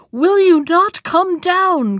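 slow, high, loud demand; loud cry. A narrator's reading. Bluebeard demanding his wife come down, loud cry. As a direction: shout it slowly, each word stretched. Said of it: "cried Bluebeard".

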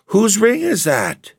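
high, slow, passionate demand; passionate cry. A narrator's reading. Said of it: "she cried passionately".

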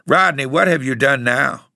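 anxious aunt confronting him; dismayed demand. A narrator's reading. Aunt confronts Rodney in dread.

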